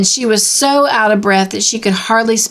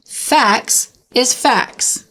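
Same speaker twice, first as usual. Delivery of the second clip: whisper; 4 semitones higher, much slower than usual. A narrator's reading. Contemptuous Eliza sums up.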